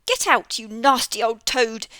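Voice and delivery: loud angry bee shriek. Acted. Babbity Bumble the bee shrieking at Mister Jackson. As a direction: shriek at the toad. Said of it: "shrieked Babbity Bumble".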